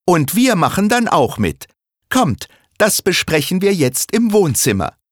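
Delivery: put-on high, bright child's voice, keen on the plan; Sarah inviting the family to the living room, high and eager; eager young girl. Little girl rallying the family, high childlike voice.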